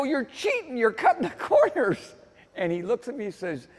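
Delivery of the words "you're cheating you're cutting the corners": high-pitched, protesting mock outrage; indignant accusation. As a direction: act out calling the rival a cheat. Acted accusation in the quarrel.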